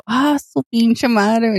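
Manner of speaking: very slow, drawn-out groan of defeat; amused exasperation. Retold or imitated. Exasperated reaction.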